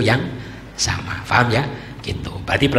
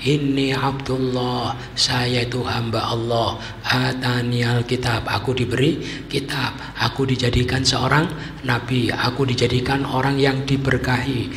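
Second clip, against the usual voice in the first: put-on small baby voice. Baby Isa answering the accusers, slow small voice. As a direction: speak gently, slowly, like a tiny child. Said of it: "Suaranya kecil ya".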